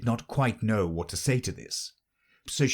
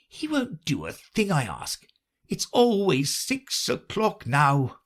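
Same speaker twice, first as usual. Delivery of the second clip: mournful; 8 semitones higher than usual. Acted. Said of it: "in a mournful tone".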